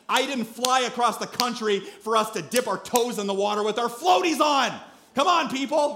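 mock outrage at the kids; exasperated rant. Father fuming as kids refuse the ocean, exasperated.

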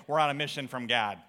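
low-pitched line in a playful Chicago accent. Shown as a demonstration. Pastor showing the congregation what to say, Chicago accent. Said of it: "In your best Chicago accent".

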